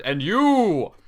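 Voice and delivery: loud, high mock-dramatic "you"; dramatic address. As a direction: overplay the affection for a toy.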